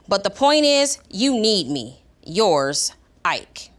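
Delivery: expressive read-aloud with deliberate pauses; measured storybook delivery; reading aloud to children. A narrator's reading. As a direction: read the letter clearly to a class, landing the key words. Reads the dog's letter aloud.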